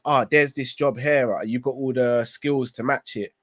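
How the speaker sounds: lightly voiced wife, slow and low; a hint of a wife urging, unhurried; coaxing wife. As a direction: gently nudge him toward the job, slowly. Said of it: "and she goes".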